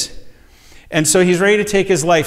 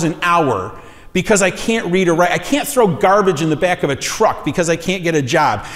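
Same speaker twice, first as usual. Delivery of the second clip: frustrated; 3 semitones higher than usual. Retold or imitated. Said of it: "And he was frustrated".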